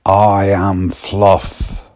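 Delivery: slow, deliberate I am Fluff; slow odd declaration. Retold or imitated. Young lad announcing himself as Fluff, slow and deadpan. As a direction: say it slowly and solemnly. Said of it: "He said".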